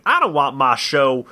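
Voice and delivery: put-on low Southern accent. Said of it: "I'm doing a Southern accent".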